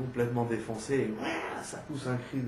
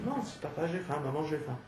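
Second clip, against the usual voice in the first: put-on soft little child asking calmly; enfant sans crier; 3 semitones higher, 5 dB quieter than usual. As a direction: lightly voice a child asking quietly. L'enfant qui demande sans crier. (petite voix douce d'enfant)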